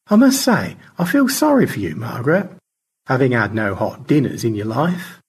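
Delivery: high-starting pity that settles down; George, pitying. Acted. Astronaut commiserating with the on-screen avatar, lightly hammed-up pity. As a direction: start high with hammed-up sympathy, then ease down.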